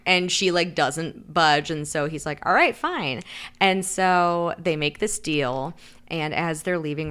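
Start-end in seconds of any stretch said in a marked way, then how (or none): 2.5-3.2 higher-pitched put-on giving in; huffy acted agreement; mock grudging concession. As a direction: concede with imitated exasperation. He gives in to her demand.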